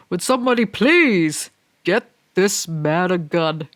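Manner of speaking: slow, weighty film-quote delivery; Morpheus impression. Quoting John Wick three for the viewers, slow and grave. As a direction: intone it like a grim action-movie line. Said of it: "Great line, Morpheus".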